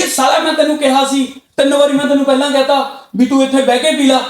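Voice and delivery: a touch of exasperated I-told-you-so; angry parent's reaction. Acted. Parent reacting to a child's spilled milk, mildly angry. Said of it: "ਉਹ anger ਹੈ ਤੁਹਾਡਾ".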